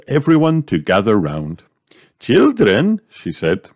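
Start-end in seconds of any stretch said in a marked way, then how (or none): 2.2-3.0 high, lilting teacher voice; teacher calling children. A narrator's reading. Madame Gazelle gathers the playgroup round, calling. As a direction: gather the class with a high call.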